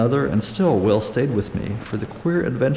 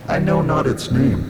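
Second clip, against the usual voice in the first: put-on higher, old-fashioned stranger's voice; anguished castaway; 6 semitones higher than usual. A narrator's reading. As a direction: cry out in wretched longing.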